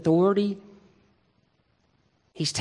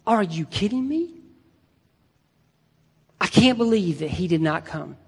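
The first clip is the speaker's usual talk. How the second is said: exasperated disbelief. Retold or imitated. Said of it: "I would be like".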